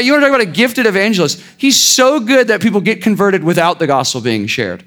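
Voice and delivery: quick sarcastic praise, then easing. Real, not acted. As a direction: gush with mock admiration. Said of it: "I'm being sarcastic here".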